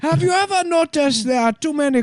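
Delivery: high, level synth voice; deadpan computer voice. Retold or imitated. Computer voice glitching jokes.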